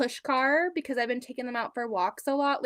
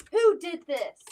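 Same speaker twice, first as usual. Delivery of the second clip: higher, firmer mock judge demanding; judge and jury; 6 semitones higher, 4 dB louder, slower than usual. Son playing judge over nail polish on the wall, mock stern. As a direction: play the stern little judge. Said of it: "he was being like a judge and jury".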